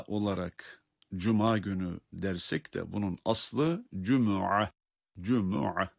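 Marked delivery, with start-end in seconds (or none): 4.0-5.9 "cumu'a" with a clear u after the m; u on the mim. Shown as a demonstration. Teacher showing the original Arabic word, "cumu'a" with u after m. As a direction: say "cumu'a" in three syllables, slowly. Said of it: "mimin ötresiyledir".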